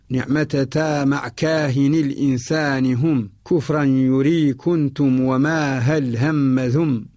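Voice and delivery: slow, measured poem reading; verse recitation. Acted. Teacher reciting the mnemonic verse to students, slow measured recitation. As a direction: recite the verse slowly, word by word.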